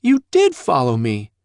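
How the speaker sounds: loud, high angry accusation; railing at him. Acted. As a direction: lash out at her father. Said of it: "she railed at him".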